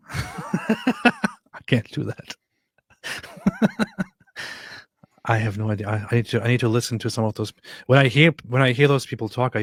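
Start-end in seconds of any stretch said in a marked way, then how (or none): 0.0-4.0 laughing. Real, not acted.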